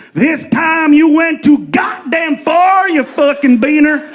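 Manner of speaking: slow, drawn-out angry shout; hammed-up fury at the comic; mock outraged yell. Crowd finally offended, mock angry shout. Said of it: "just once I wanna hear this".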